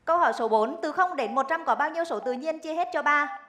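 crisp quiz host read; game show host. Acted. Host reads quiz question.

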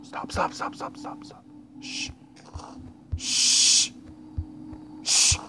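soft unvoiced stops and hushes; frightened whisper. Real, not acted. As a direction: hush yourself so it won't hear. Hiding from monster, whispering.

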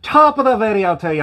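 bad Irish accent; hammy stage-Irish greeting. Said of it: "the worst Irish accent ever".

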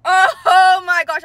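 high, loud gush of joy; excited squealing. Real, not acted. Collector can't stop celebrating, excited squealing. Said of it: "I can't stop".

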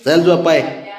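breathy laughing whisper, slow. Real, not acted. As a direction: laugh under the breath while coaxing. Laughing while coaxing child. (हसत हसत कुजबुजत झोपायला बोलावणे)

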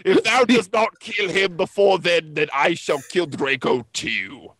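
lightly voiced villain, slowing at the end; a hint of dark-lord threat; Darth Vader voice. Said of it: "in his raspy voice".

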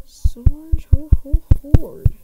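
loud, high breathy whoops; gleeful treasure shout; thrilled loot cry. Real, not acted.

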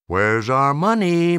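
hard, slow, loud demand; bully the boy for his money. Acted. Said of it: "Maggie demanded".

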